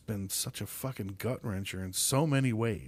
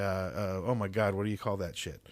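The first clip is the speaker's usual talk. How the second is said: normal talking voice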